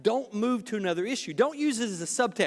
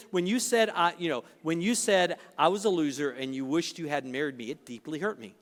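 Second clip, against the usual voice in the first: dispassionate; 5 semitones lower than usual. Shown as a demonstration. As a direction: say it without passion, gently. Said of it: "You say it dispassionate".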